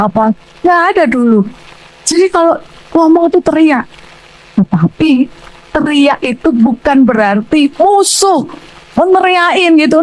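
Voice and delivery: normal talking voice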